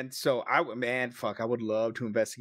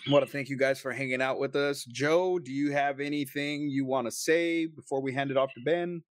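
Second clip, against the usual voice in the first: higher-pitched host wrap-up voice; show sign-off; 4 semitones higher than usual. Real, not acted. Host thanking listeners and handing off, in sign-off voice.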